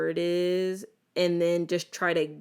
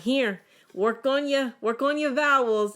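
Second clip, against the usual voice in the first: higher, put-on mom voice; mom's instruction; 5 semitones higher, 3 dB louder than usual. Mother in the car, brisk put-on instruction. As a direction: hand it over like a brisk mom. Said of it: "she'd be like".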